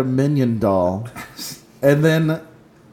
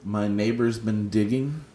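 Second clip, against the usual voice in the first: laughing; 3 dB louder than usual. Real, not acted. Reads odd list item, laughing.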